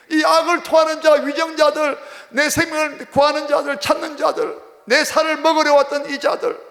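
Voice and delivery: high, pleading cry to God; crying out in prayer. Acted. David begging God to save him from enemies, crying out. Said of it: "울부짖었다는 거야".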